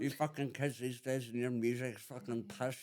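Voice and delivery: lightly voiced cranky old man ranting at kids; hint of a bitter pensioner; mock old-timer grumbling at today's music; grumpy old man. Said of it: "be an absolute fucking bastard when I'm old".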